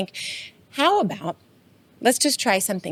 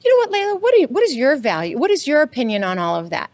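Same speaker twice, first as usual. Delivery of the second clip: kind curious asker; 4 semitones higher than usual. Retold or imitated. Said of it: "take enough time to say".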